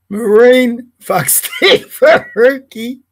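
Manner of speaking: slow, relishing each word, laughing; savoured slow repeat. Real, not acted. Repeating the nickname for viewers, slow and laughing. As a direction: drag it out to enjoy it. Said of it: "Can I say that again?".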